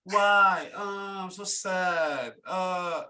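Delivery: high, slow, drawn-out crybaby moan; hammed-up self-pitying whine; mock whining. Host mocks the sulking player after his rant, whining high.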